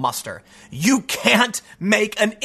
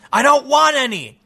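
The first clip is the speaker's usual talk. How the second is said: quoted celebrity; 5 semitones higher, 4 dB louder than usual. Retold or imitated. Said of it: "And he goes".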